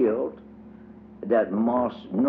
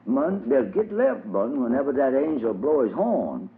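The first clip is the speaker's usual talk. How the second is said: a lightly voiced old country preacher, earnest; old preacher musing aloud, a touch higher; 5 semitones higher than usual. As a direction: preach it to Brother Daniel like a sermon. Old preacher Uncle Bob speaking.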